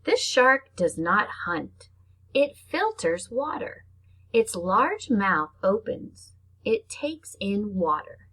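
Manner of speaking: slow, drawn-out storybook read; reading to children. Acted. Teacher reading a shark book to her class, slow storybook voice. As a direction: read each short line slowly for little kids. Reads picture book aloud.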